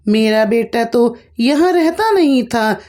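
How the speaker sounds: storytelling mock scolding with pitch spikes; scolding bitterly. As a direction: berate the daughter-in-law, voice climbing. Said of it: "बुरी तरीके से कोसने लगी".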